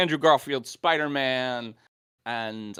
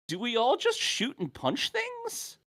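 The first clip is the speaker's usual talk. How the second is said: mock dumb hero voice; 12 semitones higher, 6 dB quieter, slower than usual. Mocking the team's plan.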